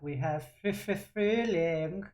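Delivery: slow teasing stammer on F-F-Fruling; playful stutter. Pretend. Host stammers the character name.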